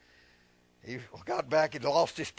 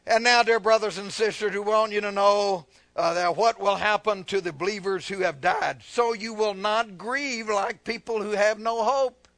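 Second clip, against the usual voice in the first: raised, emphatic reading to a congregation; preached scripture reading; 4 semitones higher, 6 dB louder than usual. Real, not acted. Preacher reading scripture to the church, emphatic. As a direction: read it out with pulpit force.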